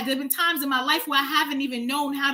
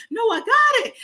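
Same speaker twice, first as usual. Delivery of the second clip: higher, a quick automatic no; reflex refusal; 9 semitones higher, 5 dB louder than usual. Retold or imitated. Scared hiker refuses a stranger's help out of reflex, higher and quick. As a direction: brush off help on reflex, mildly mocked. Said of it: "just as a reflex".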